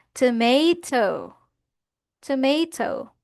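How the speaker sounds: "Tomato" stretched slowly with a long MAY; "Tomato" as tuh-MAY-toh, drawn out; slow model pronunciation. Shown as a demonstration. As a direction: sound out "Tomato" slowly for learners. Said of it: "paano natin basahin ang word na ito".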